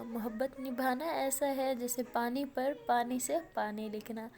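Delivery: slow recited verse; poem recitation. Shown as a demonstration. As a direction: recite it slowly, letting the end fade. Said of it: "عرض کیا ہے".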